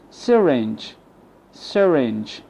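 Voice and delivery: "syringe" with a weak uh first vowel; schwa for Y. Shown as a demonstration. Teacher shows the replaced Y, "syringe" with schwa. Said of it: "The Y replaced with the schwa".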